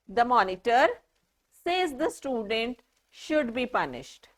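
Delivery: the student is the one speaking, so set off "says the student"; pauses for meaning. Shown as a demonstration. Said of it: "Let me repeat one more time".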